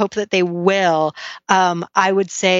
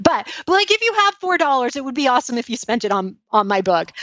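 eager pleading; 6 semitones higher, faster than usual. Real, not acted. Jokingly pleading to buy book.

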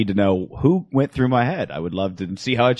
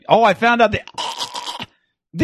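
high squeaky voice; 12 semitones higher than usual. Retold or imitated. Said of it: "You'd be like".

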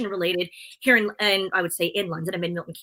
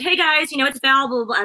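vlogger intro; 4 semitones higher than usual. Retold or imitated. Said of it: "So I said".

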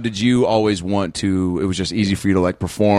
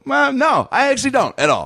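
mock defeated; 13 semitones higher than usual. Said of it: "I go".

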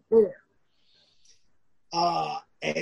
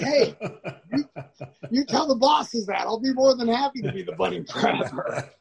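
laughing comeback; 2 semitones higher than usual. Retold or imitated. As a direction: toss it back with a chuckle. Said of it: "I'm like".

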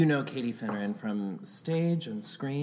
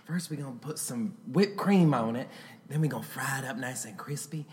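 put-on Southern accent. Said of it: "Talk about your grits and your bacon".

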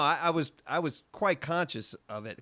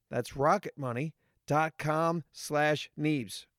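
slow and clear; slower than usual. Shown as a demonstration. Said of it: "What is that again?".

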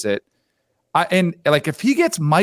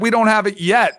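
mock shout; 5 semitones higher than usual. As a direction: belt out the quote. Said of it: "And he absolutely said".

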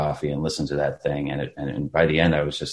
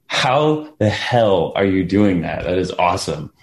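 retold amazement; 3 semitones higher, 3 dB louder, slower than usual. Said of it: "It was just like".

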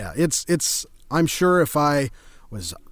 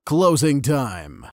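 closing call; much slower than usual. Pretend. Mock announcement at sign-off.

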